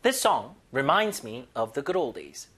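slow, careful teaching read; slow model sentence. Shown as a demonstration. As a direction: spell it out slowly for learners. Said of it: "요 문장 그냥 통으로 외웠으면 좋겠습니다". (천천히 또박또박 시범 읽기)

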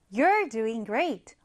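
You're doing great, said very slowly and clearly; slow example read. Shown as a demonstration. Teacher repeating the example slowly for the class. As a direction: lay each word out slowly. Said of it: "예문 한번 살펴볼게요".

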